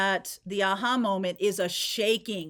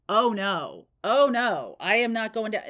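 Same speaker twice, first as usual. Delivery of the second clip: mock emphatic refusal; 5 dB louder than usual. Refusing a sniffing narcissist.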